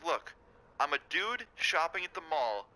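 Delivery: telling her off for blaming you; retold indignant rant; heated retort. Arguing back at store lady.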